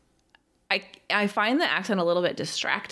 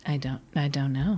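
whispered reply; 4 semitones lower than usual. Real, not acted. Unsure about nude scene.

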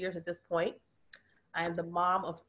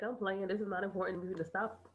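voiced playing child; 3 dB quieter than usual.

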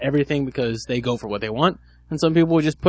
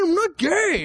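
very high, squeaky denial; mock panicky denial; much slower than usual. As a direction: squeal the word not like a panicked guy. Imitating the guy's denial.

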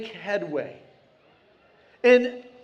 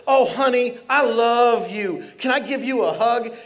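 sweet voice; 5 dB louder than usual. Retold or imitated. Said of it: "she's just got this really sweet voice".

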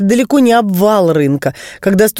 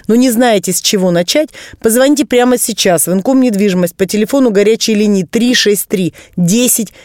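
infomercial. Acted. Guest plugs hotline again.

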